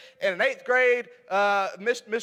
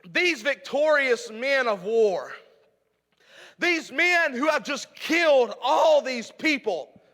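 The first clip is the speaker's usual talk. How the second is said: raised preaching voice, pressing the point. Acted. Preacher urging the church to keep going, raised preaching. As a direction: preach it to the congregation.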